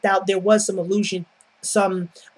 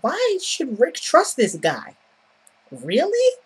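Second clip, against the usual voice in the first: mock incredulous; 4 semitones higher than usual. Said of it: "And I'm like".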